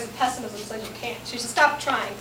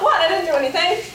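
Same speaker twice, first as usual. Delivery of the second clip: indignant protest; 6 semitones higher, 5 dB louder than usual. Acted. Protests after being scolded.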